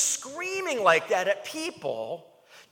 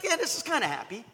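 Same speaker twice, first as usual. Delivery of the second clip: mock lukewarm; faster than usual. Mocking lukewarm joy.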